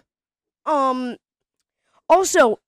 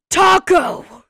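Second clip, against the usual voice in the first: excited gasp; 5 semitones higher, 9 dB louder than usual. Acted. Spotting the taco in the picture.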